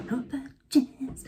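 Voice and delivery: slow, drawn-out showy echo; playful, lingering stage flourish; theatrical catchphrase. Pretend.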